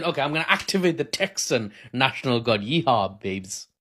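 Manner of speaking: half-hearted mock Texan accent; attempted Texan accent. Analyst voicing the White House, attempted Texan accent. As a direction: have a playful go at Texan. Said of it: "I won't try a Texan accent anymore".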